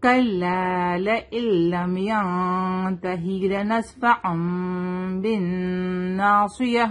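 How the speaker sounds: slow measured tajweed recitation; teacher's model recitation; Quranic recitation. Shown as a demonstration. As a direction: recite it slowly, drawing out the vowels.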